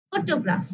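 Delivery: ফটোগ্রাফ with weight on the opening ফ; stress on first syllable. Shown as a demonstration. Teacher recaps for class, first syllable of ফটোগ্রাফ stressed. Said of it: "stress মানে একটু জোরে আমি sound করব".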